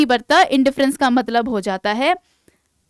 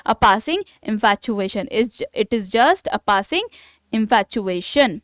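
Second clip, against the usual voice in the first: slow example sentence; much slower than usual. Shown as a demonstration. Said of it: "sentence में इसका usage देखिए".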